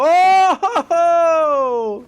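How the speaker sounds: high teasing oh ho ho; mocking teasing. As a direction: rib him like the guys did. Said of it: "the rest of the guys go".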